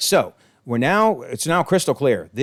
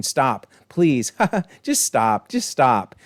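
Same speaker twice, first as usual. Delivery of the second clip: mock laughing "stop"; laughing plea; much slower than usual. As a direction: giggle through the pleading. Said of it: "she was just smiling and laughing".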